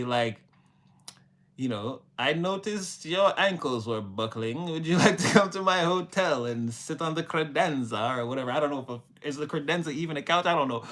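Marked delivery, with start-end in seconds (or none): 2.2-8.2 measured, politely worded mock come-on; mock formal speech. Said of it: "They're gonna say".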